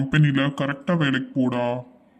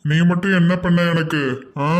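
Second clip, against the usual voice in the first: put-on drunk angry yell; 3 semitones higher than usual. Drunk son shouting back at his mother, angry. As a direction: throw it back at her, raging.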